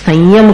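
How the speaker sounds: संयम with a nasal vowel gliding into य, no म; nasal anusvara demo. Shown as a demonstration. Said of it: "अपन संयम नहीं बोलते".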